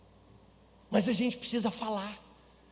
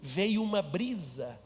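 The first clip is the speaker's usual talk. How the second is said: ordinary talk, nothing marked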